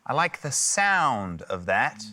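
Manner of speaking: slow, with the word sound drawn out and leaned on; stress on sound. Shown as a demonstration. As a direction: lean hard on sound, slowly. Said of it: "I emphasise the word sound".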